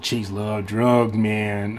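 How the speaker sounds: slow, lazy dude voice; imitating his friend. Quoting a friend on chicks and drugs, slow mock dude voice. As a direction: stretch it out like a stoned buddy. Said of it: "he was talk like that".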